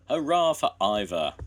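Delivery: loud hurrah; cheering shout. A narrator's reading. The village cheering Ivor, loud hurrah. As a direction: cheer for the engine. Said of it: "they shouted".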